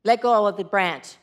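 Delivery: low, calm God voice; booming voice of God. Acted. God instructs the hanging hiker, low voice. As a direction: give the order low and evenly. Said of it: "it's a booming voice".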